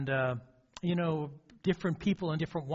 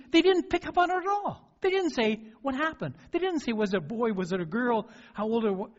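exasperated, much higher retelling of what the ladies failed to ask; incredulous retelling; 7 semitones higher, 3 dB louder than usual. Retold or imitated. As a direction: let the disbelief lift the voice. Exasperated at ladies ignoring grief.

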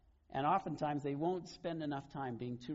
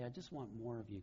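lower, soft, earnest plea; hushed heartfelt prayer; sincere prayer; 3 semitones lower, 6 dB quieter than usual. Acted. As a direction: say it quietly to God, meaning it. Same words as a prayer to God.

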